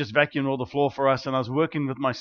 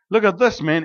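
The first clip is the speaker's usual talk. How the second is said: excited exclaim; 5 semitones higher, 5 dB louder than usual. Retold or imitated. Showing wife stone in hand.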